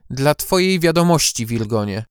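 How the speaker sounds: curt, firm put-down; firm and dry. Acted. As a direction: coldly set him straight. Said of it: "stanowczy i suchy ton".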